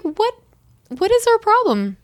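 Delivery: very high, indignant questioning; exasperated disbelief. Retold or imitated. Acted exasperation at rude receptionist.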